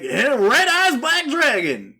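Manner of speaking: hammed-up monster summons; card summoning call. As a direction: announce the card with a flourish. Acting Joey's summoning call.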